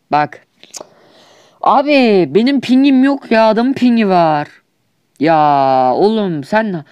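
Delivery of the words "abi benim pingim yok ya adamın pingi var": high, louder frustrated whine; whining complaint. Pretend. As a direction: moan about the lag. Complaining about lag.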